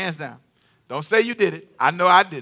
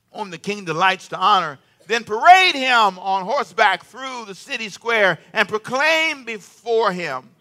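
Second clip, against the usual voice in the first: scripture reading; 4 dB louder than usual. Acted. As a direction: lay out the honors like a proclamation. Reads Haman's speech in scripture.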